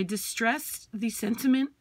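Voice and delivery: slightly hoarse, losing her voice. Real, not acted. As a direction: talk through a tired, rough throat. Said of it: "I'm losing my voice".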